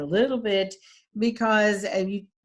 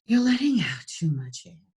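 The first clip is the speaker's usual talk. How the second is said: breathy voice. Shown as a demonstration. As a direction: air spilling on every word. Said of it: "And this is breathy".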